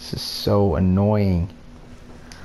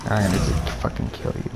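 fast, soft whispered threat; real seething whispered rage; 4 semitones lower, 5 dB quieter, faster than usual. Real, not acted. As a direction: hiss it quickly under your breath. Threatening opponent under breath.

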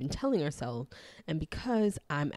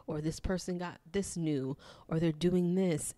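whiny voice; 3 semitones higher than usual. Retold or imitated. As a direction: whine it like a jealous inner voice. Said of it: "my subconscious whiny voice would be like".

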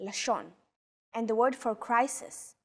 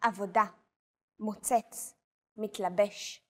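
Avoda, motzetz, mitlabesh with the stress on the last syllable; final-syllable stress. Shown as a demonstration. Tutor demonstrating last-syllable stress for learners. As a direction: land on the last syllable of each word. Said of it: "Stress is usually on the last syllable".

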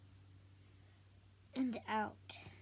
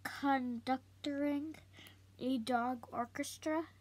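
little sister. Acted. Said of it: "Samantha asked".

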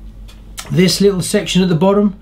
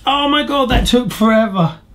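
exasperated relief; 7 semitones higher than usual. Real, not acted. Relief after long build.

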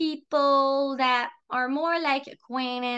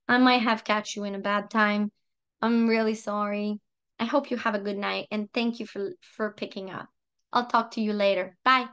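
lower, softening phone sign-off; gentle apology; 3 semitones lower than usual. Acted. Bowing out of a call at a bad time, gently apologetic. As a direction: back off kindly and let them go.

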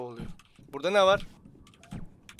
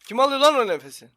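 louder, higher alarmed talk; spooked; 4 semitones higher, 7 dB louder than usual. Real, not acted. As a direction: sound spooked by a noise. Ürkmüş, nefes sesi duyuyor. (ürkmüş, telaşlı ses)

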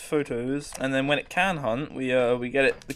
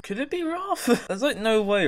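alarmed high squeak; 8 semitones higher than usual. Real, not acted. Alarmed guess at ghost type.

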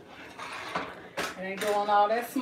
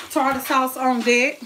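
punchy announcement, pitched up a touch; announcing; 2 semitones higher, 4 dB louder than usual. Real, not acted. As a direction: announce the dish with some punch. Announces the sauce, later repeated softer.

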